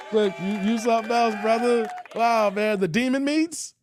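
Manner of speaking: amused disbelief at the joke; laughing disbelief. Real, not acted. Host reacts laughing to joke.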